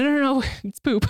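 quick, laughing no no no; laughing reassurance. Retold or imitated. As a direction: rattle it off fast while laughing. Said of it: "And they're like".

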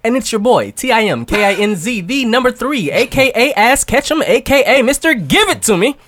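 high, hyped announcer intro; hype intro. Acted. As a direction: hype up your entrance.

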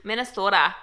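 lightly done Minnesota accent on "Minnesota". Shown as a demonstration. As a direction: say "Minnesota" like a local. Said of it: "I can do a Minnesota accent".

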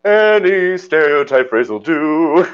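hammed-up lilting parody, stretched out slowly; Peter Pan. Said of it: "Peter Pan, like".

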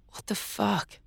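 high, disbelieving outburst; shocked. Acted. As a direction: react in stunned disbelief. Stunned reaction to mermaid.

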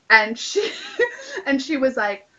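laughing through the words. Real, not acted. Laughing while telling a friend about Hattie. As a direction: breaks into a real laugh mid-sentence.

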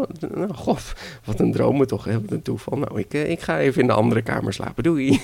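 light, hurried grandmother; feigned innocence. Acted. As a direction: make an airy excuse and slip away. Grandmother feigns innocence, slips away. (zogenaamd onschuldig wegglippen)

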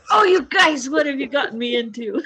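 high, loud playful outcry fading into a laugh; mock outcry. Friend retelling Cameron's reaction, mock outcry. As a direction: ham up his cry of dismay, half laughing. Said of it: "And he's like".

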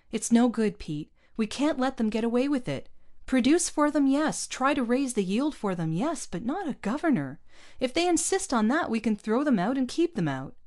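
heated rebel resolve; defiant outburst. A narrator's reading. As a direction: refuse to bow to the governor.

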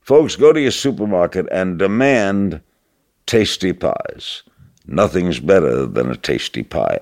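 announcer pitch, slowing on tasty pies; radio commercial read. Retold or imitated. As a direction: sell it like a radio ad. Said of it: "this is the commercial I did".

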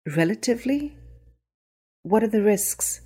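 a frightened mother pressing the doctor; shaky worried voice. A narrator's reading. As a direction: push back on the word in rising worry. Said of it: "asked in a shaky voice".

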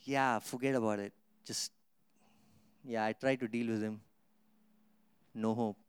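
the devil giving up on a grateful man, lightly voiced; mock defeated devil. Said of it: "devil will tell his demons".

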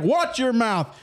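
amused re-enactment of a reprimand; retold scolding. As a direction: imitate dad repeating a telling-off. Dad repeats his scolding.

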